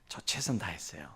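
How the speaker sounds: quiet, sheepish son; mumbled excuse. Retold or imitated. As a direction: mutter the excuse softly. 아들의 변명을 흉내 냄. (작게 웅얼거리는 아들 흉내)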